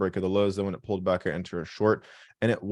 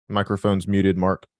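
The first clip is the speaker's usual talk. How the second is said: louder call to get Mark's attention; 6 dB louder than usual. Real, not acted. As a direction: raise the voice so Mark hears. Host calls Mark again, louder.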